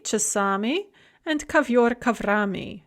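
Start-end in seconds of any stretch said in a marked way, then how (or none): 1.5-2.8 "ковёр" with its ё, "коврами" with that vowel dropped; fleeting vowel. Shown as a demonstration. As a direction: let the ё vanish between "ковёр" and "коврами". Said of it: "note the fleeting vowel".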